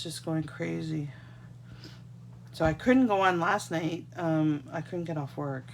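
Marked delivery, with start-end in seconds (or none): none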